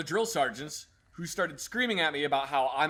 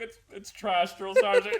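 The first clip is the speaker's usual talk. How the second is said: laughing private; 4 semitones higher, 5 dB louder than usual. Retold or imitated. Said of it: "He's like".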